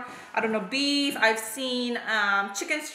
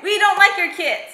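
laughing quote; 7 semitones higher, 10 dB louder than usual. Retold or imitated. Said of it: "Last video they said".

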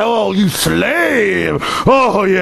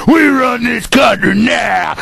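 steadier, lower swaggering claim; lower cop boast. Retold or imitated. Radio host imitating a cop boasting again, lower and smug. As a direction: settle back into smug menace. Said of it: "that's an imitation of 'em".

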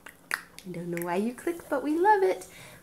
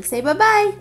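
higher, louder coaxing voice; 11 semitones higher, 11 dB louder than usual. Real, not acted. Mother coaxing her toddler to say bye-bye, high and sing-song.

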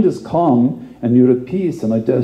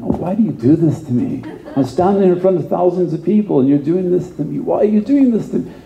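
rising, pleading complaint to God; exasperated protest; 5 semitones higher than usual. Retold or imitated. A preacher retelling his complaint to God, exasperated and pleading. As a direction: whine it upward in disbelief.

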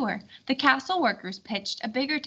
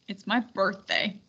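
lower, softer grumble; grumpy mutter; 3 semitones lower, 3 dB quieter than usual. Acted. King complaining to the hosts, grumpy lower mutter. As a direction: sulk about the long ride. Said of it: "he muttered grumpily".

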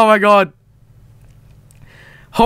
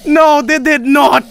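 drawn-out, higher disbelieving protest; shocked disbelief; 5 semitones higher, slower than usual. Real, not acted. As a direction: stretch it out in stunned disbelief. Shocked reaction to game.

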